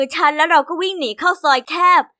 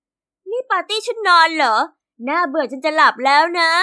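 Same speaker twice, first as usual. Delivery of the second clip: mocking tease. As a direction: drag it out like you're bored to sleep. Classmates mocking the party.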